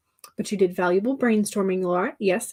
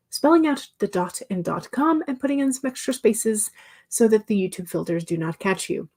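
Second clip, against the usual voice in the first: calm cabin announcement voice; flight attendant voice. Pretend. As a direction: read it like a flight safety briefing. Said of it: "how am I doing on my flight attendant voice".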